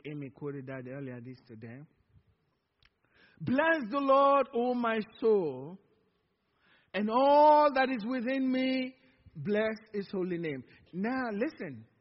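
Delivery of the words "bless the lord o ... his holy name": slow, solemn reciting of scripture; psalm recitation. Acted. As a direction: lift the verse out slowly, like a proclamation.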